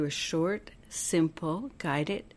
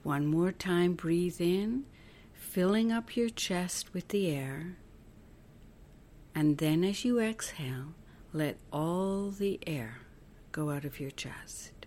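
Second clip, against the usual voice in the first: guided meditation; 5 dB quieter than usual. Acted. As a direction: guide them gently through each breath, letting phrase endings soften. Leads breathing visualization.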